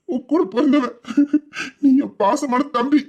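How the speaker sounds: slow, tender, with a small laugh; tender, tearful. Acted. Elder brother to his younger brother, slow and tender. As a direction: savour every word to your little brother.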